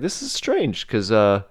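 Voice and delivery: a hint of an Irish ship captain puzzling aloud; Irish accent. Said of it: "who is Irish, by the way".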